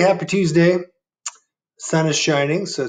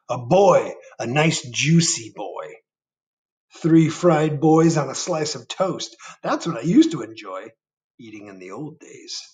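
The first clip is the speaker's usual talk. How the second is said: put-on old giant; 3 semitones higher than usual. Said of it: "said the giant".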